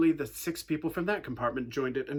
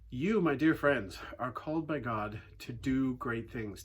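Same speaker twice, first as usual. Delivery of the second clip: sermon; 3 semitones lower than usual. Acted. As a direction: draw the congregation in gently. Preaching the lesson to congregation.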